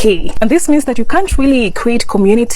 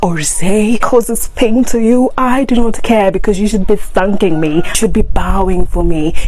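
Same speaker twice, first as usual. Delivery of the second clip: satirical arrogant American. Acted. Vlogger parodies an American insulting Africans, mock scorn. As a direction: sneer down at the poor African, mildly mocking. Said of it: "let's see the, our response".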